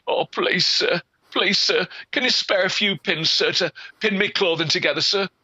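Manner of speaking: put-on high pleading young lass voice; begging girl. Girl pleading with peddler, high and pitiful. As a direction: beg him sweetly for a few pins.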